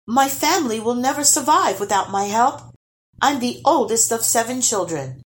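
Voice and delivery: put-on high, pleading young hero; begging. A narrator's reading. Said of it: "begged Lars".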